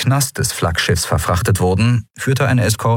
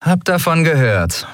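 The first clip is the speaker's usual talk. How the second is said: higher, fast needling question; Sephiron, mocking; 10 semitones higher than usual. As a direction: poke at the admiral with a rising jab.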